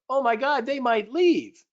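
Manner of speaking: high, loud startled alarm; hammed-up panic over the Brexit vote; mock panic. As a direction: gasp like a spooked trader. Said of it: "the freak out index is like".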